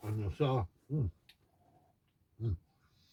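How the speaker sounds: talking with mouth full. Talking to viewers while eating the dish he just made, with mouth full. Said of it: "don't talk with your mouth full".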